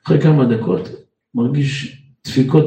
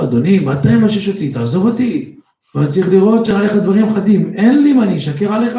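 indignant protest; 6 semitones higher than usual. Retold or imitated. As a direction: protest the search, rising up. Passenger protests body search. (מחאה נרגשת ונסערת)

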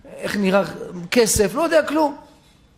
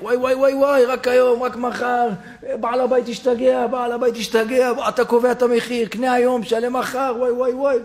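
market vendor calling out. Retold or imitated. Market vendor calling to passers-by, mild mock hawker's cry. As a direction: hawk the bargain like a stall keeper, only half-performed. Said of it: "רואה אחד צועק".

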